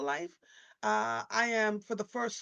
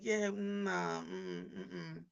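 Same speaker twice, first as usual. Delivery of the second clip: dismissive refusal; 5 dB quieter, much slower than usual. Retold or imitated. Family declining the trip.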